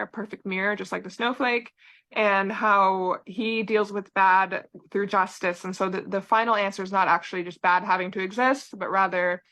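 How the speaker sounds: talking with a retainer in; words slightly blurred by a retainer; wearing a retainer. Real, not acted. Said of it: "sorry, I'm wearing my retainer".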